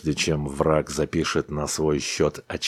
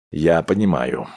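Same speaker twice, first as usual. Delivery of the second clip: persuasive tone. A narrator's reading. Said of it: "взял Дональдсон убеждающий тон".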